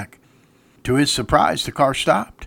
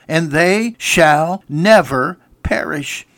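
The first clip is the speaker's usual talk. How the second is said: hushed quote; much slower than usual. Acted. Quoting Jesus, hushed.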